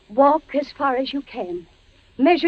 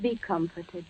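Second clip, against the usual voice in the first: much softer, hushed and tender; soft ghostly voice; 5 semitones lower, 3 dB quieter than usual. Acted. Imagined wife comforting her husband, soft and hushed. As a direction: speak like a gentle vision.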